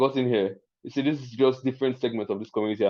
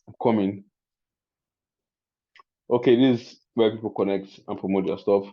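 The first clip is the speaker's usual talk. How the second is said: ordinary talk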